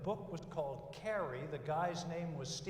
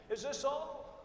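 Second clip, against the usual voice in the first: put-on spoiled kid; 9 semitones higher, 3 dB louder, slower than usual. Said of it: "You all know that kid?".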